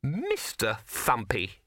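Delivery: slow, scornful rabbit echo; withering. Acted. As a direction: draw the name out with withering contempt. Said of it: "it said in withering tones".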